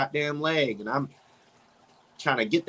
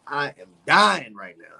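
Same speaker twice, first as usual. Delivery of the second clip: with heartburn; 5 dB louder than usual. Real, not acted. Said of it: "I have freaking heartburn".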